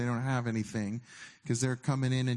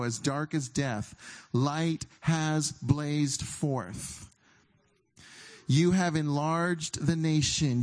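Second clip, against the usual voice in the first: slow, solemn reading of scripture; slower than usual. Acted. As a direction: read it like a movie soundtrack is swelling underneath.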